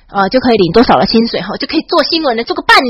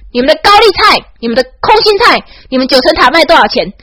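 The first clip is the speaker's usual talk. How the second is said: taunting guide; 4 semitones higher than usual. Retold or imitated. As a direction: rub it in their faces. Tour guide taunting foreign tourists. (导游挑衅地提问，语调偏高)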